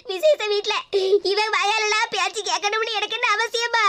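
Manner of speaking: slow, tearful words breaking into sobs; crying complaint. Acted. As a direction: cry out the hurt, dragging the words. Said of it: "அழாத லட்சுமி".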